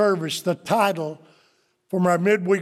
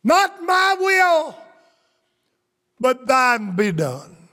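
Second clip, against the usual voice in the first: intoned prayer of Christ; 6 semitones higher, 3 dB louder, slower than usual. Acted.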